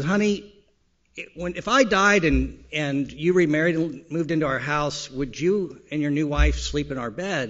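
a touch of a wife probing; wife's voice. Retold or imitated. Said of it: "and she comes back and says".

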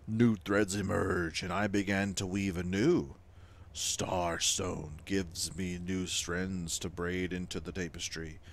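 slow, solemn, hushed ancient weaver. Acted. Weaver begs the player to seek Starstones, slow and solemn. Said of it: "I spoke in that voice".

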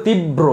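তীব্র as tib-bro, with a doubled b; correct pronunciation. Shown as a demonstration. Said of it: "উচ্চারণ হবে তীব্র". (তীব্র: তিব-ব্রো, ব দ্বিত্ব করে উচ্চারণ)

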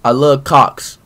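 said without closing the lips; lips not touching. Real, not acted. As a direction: keep the lips apart on every word. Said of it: "I love cops without your lips touching".

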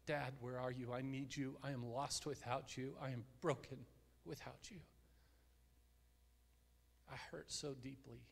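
a lost son calling to his father, subdued; retold anguished cry. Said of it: "And so he cries out".

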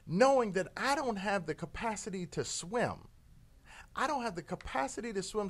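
a hint of a pleading scorpion, rising to a shout. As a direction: coax the frog, then blurt out you'll die.

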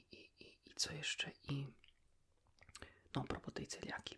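normal talking voice

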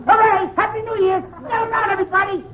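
high party whooping; rally an imaginary New Year crowd; mock celebration. I always talk loud.

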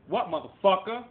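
sudden furious high shout; exploding shout at the trolls; angry yell. Real, not acted. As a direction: bark it out at them, full rage. Angry outburst at viewers.

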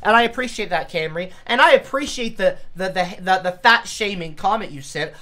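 dry sarcastic thanks. Acted. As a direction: thank them with mock gratitude. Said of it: "this is sarcasm right here".

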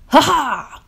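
loud, high triumphant "ha ha"; laughing. A narrator's reading. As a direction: crow with acted laughter. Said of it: "Grouch laughed".

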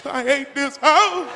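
slow drawn-out whine; a hint of a crying kid; whiny kid. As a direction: sulk it out.

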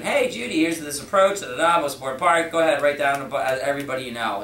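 bright, confident instructions; firm direction. Shown as a demonstration. Rep giving Judy direction for referrals, assertive. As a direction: steer her clearly. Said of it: "you gotta give direction".

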